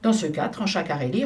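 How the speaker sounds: plain reading voice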